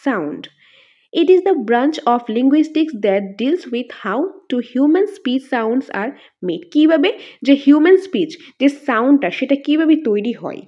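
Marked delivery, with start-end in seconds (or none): 1.1-6.6 slow, even reading of an English definition; dictation reading. Shown as a demonstration. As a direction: read it out word by word so students can copy. Reads the English definition aloud. (ধীরে ধীরে সংজ্ঞা পড়া)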